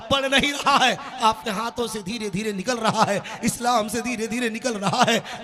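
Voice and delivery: impassioned sermon oratory; fervent preaching. Real, not acted. Preacher warning his brothers about neglected faith, fervent preaching. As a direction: preach it in insistent, rolling phrases. Preacher addressing congregation at full force.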